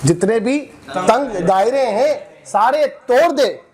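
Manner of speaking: slow, measured mushaira verse delivery; poetry recitation. Acted. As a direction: recite it line by line, pausing and lifting repeats. Recites a protest poem.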